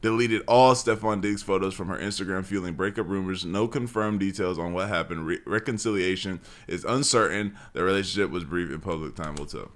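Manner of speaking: low, quiet read-out; soft, low recital of a written post; reading aloud. Real, not acted. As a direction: read it off the screen, subdued and even. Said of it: "I'm just gonna read it".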